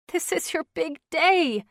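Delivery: a mild sniffle through the words; sniffling. Acted. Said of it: "she sniffed".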